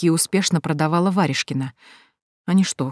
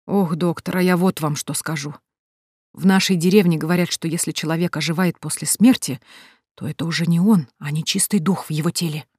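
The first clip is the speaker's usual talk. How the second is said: gloomy voice. Acted. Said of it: "мрачным голосом сказала женщина".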